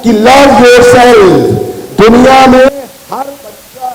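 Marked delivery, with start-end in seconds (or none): 0.3-1.3 love yourself stretched out slowly; slow motto. Shown as a demonstration. Advising the students, slowly stressing love yourself. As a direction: lean on love yourself, word by word. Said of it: "मैं हमेशा अपने discussion में ये कहता हूं".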